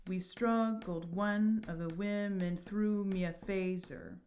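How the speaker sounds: slow breathy whisper, vowels run together in "struggled one of the women"; whispered verse reading. Shown as a demonstration. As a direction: hush it and glide the words into each other. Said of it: "We're gonna elide".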